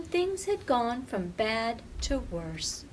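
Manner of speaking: ordinary delivery, nothing marked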